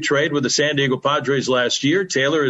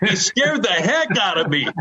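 excited; 8 semitones higher than usual. Real, not acted. Excited retelling of the scare.

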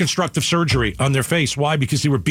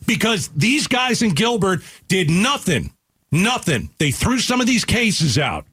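higher, slow, heated; pitched-up, deliberate fury; real anger; 6 semitones higher than usual. Real, not acted. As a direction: spell out his anger slowly to the caller. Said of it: "You're damn right I'm angry".

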